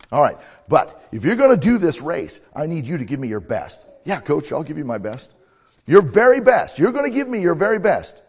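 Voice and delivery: firm coach pressing for effort; demanding coach. Acted. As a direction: push him like a coach. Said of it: "I'm gonna be a coach".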